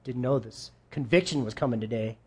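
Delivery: mock startled listener. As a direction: play a listener caught off guard. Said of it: "You're like".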